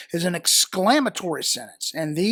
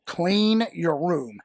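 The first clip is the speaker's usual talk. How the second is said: slow parent command; much slower than usual. Shown as a demonstration. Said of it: "I tell my kids that all the time".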